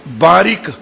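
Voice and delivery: ਬਾਰਿਕ set apart with short i, baa-rik; careful correct pronunciation. Shown as a demonstration. Preacher teaching the Ardas verse, careful baa-rik. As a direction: sound a short i after r in ਬਾਰਿਕ. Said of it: "ਰਾਰੇ ਨੂੰ ਸਿਹਾਰੀ ਲੱਗੀ ਹੈ".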